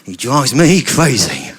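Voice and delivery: furious shout. Acted. Angry egg storming in, shouting. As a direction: shout out your anger then grumble. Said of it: "and went".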